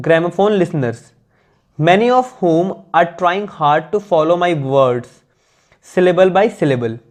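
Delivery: slow, measured English read-aloud; deliberate dictation-like reading; careful text reading. Acted. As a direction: read it out slowly, phrase by phrase.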